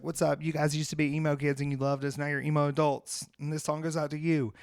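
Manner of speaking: lightly imitated Southern twang stage banter; slight Southern twang. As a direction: address the crowd with a hint of Southern twang. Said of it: "got a little Southern twang".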